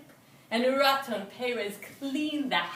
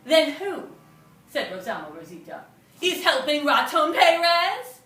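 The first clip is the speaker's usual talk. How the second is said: urgent cry; 4 semitones higher, 9 dB louder than usual. Acted. Rosalma's alarmed question.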